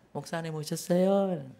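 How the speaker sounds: clumsy, forced, awkward put-on Seoul accent. Pastor retelling how chatty deaconesses drop Gyeongsang dialect when he arrives, awkward put-on Seoul accent. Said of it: "갑자기 안 되는 서울말을 하고요".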